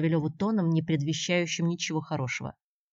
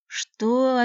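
sharply higher, louder startled what; taken aback; 8 semitones higher, 8 dB louder than usual. A narrator's reading. Arthur, stunned by the question, startled. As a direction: caught completely off guard. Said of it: "опешил Артур".

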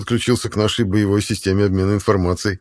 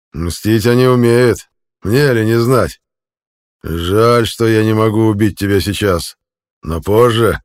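menacing jailer; 3 semitones higher, 7 dB louder, slower than usual. A narrator's reading. Jailer threatens the prisoner, loud slow menace. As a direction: promise death later, relishing it. Ravuda continues taunt.

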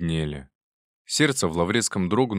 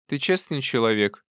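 put-on probing old aunt; 5 semitones higher than usual. A narrator's reading.

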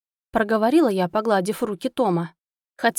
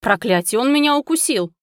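pained curse; 3 semitones higher, 4 dB louder than usual. Acted. Bitten by the squirrel.

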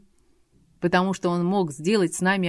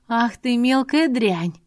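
high, slow furious outburst; 5 semitones higher, 4 dB louder, slower than usual. Acted. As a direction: spit the insult out in rage. Furious dragoness insults her maid.

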